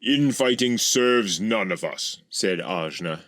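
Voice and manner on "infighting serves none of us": raised, measured diplomatic appeal. A narrator's reading. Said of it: "as diplomatically as he could manage".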